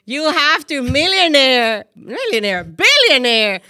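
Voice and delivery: loud, emphatic cheer; big, high-energy proclamation, drawn out; excited hype. Real, not acted. Host cheering on her friend's future fortune, excited hype.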